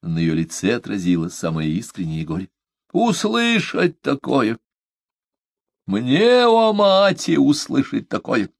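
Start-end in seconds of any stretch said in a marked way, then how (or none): 2.9-8.5 high, slow, burning indignation; indignant outburst. A narrator's reading. Omaata blazing with indignation at Parsel. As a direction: fling out the offense. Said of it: "снова пылая негодованием".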